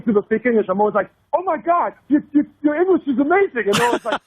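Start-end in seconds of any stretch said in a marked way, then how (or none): 1.3-3.6 high, over-impressed gushing; hammed-up, high-pitched awe; mock amazement. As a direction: parody someone astounded by fluency. Parodies the same gushing praise.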